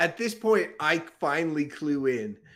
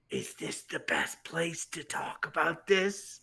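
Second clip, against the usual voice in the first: slow, unvoiced whisper; 5 dB quieter than usual. Son whispering to dad about rogue business, hushed whisper. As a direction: lean in and breathe it secretly. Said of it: "whisper to my, my dad".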